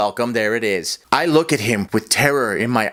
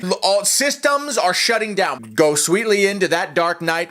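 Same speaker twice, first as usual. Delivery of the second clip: body shutdown announcement; 6 semitones higher than usual. Acted.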